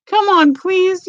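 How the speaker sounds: high, slow wheedling plea; mock begging. Husband wheedling wife for coffee, high and slow. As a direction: beg sweetly and slowly, hamming it up. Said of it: "And I'll be like".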